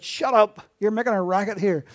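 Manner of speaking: gruff hammed-up hush of a noisy beggar; mock rude shout. Crowd silencing Bartimaeus, mock rude loud shout. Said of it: "the people said".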